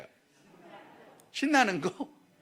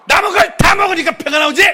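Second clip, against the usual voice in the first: louder, higher mock scolding yell; scolding shout; 8 semitones higher, 13 dB louder than usual. Mother scolding her child over leftovers, mock shout. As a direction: bark it like a fed-up mom.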